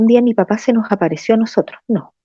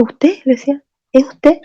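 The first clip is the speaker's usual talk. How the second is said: higher, rising disbelief; startled question; 6 semitones higher than usual. Retold or imitated. Landlady hears the dead father's voice, startled. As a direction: ask as if you can't believe it.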